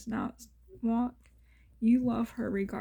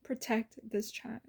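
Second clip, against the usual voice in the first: soft plea; 5 dB quieter than usual. Retold or imitated. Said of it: "I'd pray every single night".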